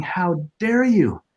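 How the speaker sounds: a drawn-out wounded reproach; retold anger. Widower at his first wife's grave, slow aching reproach. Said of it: "And I was saying".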